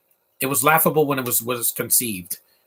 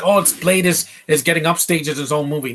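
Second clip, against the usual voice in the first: mock complaint; 3 semitones higher than usual. Host mimics fans complaining about the sequel, mock complaint. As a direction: imitate people griping, pitched up at first. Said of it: "what people are complaining about".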